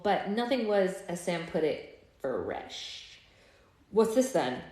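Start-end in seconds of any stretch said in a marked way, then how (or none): 3.9-4.6 sharply. Acted. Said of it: "he asked ... sharply".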